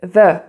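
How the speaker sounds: "The" with a voiced th, schwa vowel; English definite article "The" as thuh. Shown as a demonstration. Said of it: "tu le traduis par the".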